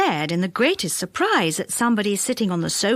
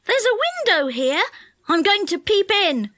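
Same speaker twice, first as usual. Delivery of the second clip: put-on excited boy; 9 semitones higher than usual. A narrator's reading. Dick excitedly calling from the tree.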